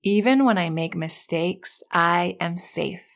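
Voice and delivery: slow, deliberate affirmation to repeat. Shown as a demonstration. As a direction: say it slowly so they can echo. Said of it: "repeat after me".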